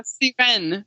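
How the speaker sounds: "Siren" said the French way, last syllable stressed with an eh; French pronunciation. Shown as a demonstration. Co-host shows how to pronounce her name, "Siren" in French, ending in eh. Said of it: "how to pronounce her name".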